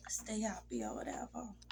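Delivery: trailing soft whisper; real whisper. Real, not acted. Widow recalling husband's wish for her, whispered. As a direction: let it fade into a whisper.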